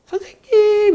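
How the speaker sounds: high, eager call of teacher; excited call. Retold or imitated. Caller phoning the teacher, high excited call. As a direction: call out, breathless with good news. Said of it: "목소리가 상기가 됐어".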